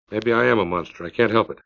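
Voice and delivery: a hint of hoarse resignation; lightly hoarse, weary confession; low and hoarse. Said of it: "a voice low and hoarse".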